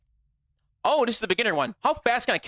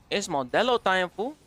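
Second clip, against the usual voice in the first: Mexican accent. Shown as a demonstration. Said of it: "Can you say".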